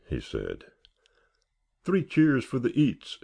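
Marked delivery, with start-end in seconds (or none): 1.8-3.2 much higher cheering shout; irrepressible shout. A narrator's reading. Roy cheering for the food at the party, high playful shout. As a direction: whip up the crowd for the food. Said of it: "shouted Roy irrepressibly".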